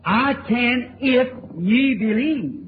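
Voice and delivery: slow, weighty: "I can if ye believe"; solemn, measured scripture quote; slow, deliberate quote. Shown as a demonstration. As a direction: stretch out each word of "I can if ye believe".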